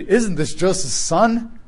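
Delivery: "Isn't this Joseph's son?" read slowly, rising in wonder; amazed reading. Shown as a demonstration. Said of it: "you could read".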